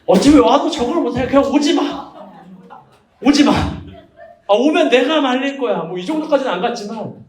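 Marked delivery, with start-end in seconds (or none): 0.0-5.8 a mock secret-agency boss warning her off; intelligence chief. Brother playing a stern agency chief, turning her away. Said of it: "그 특유의 그 안기부장이 나온 거예요".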